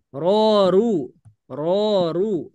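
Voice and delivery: "Ro, ru" tebal dengan pangkal lidah naik. Shown as a demonstration. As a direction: contohkan "ro, ru" dengan suara tebal. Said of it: "ini untuk yang tebal ya". (ro ru dibaca tebal)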